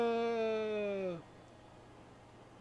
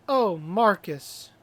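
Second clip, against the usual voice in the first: hammy stage actor; 5 dB louder, slower than usual. Acted. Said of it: "you're doing great".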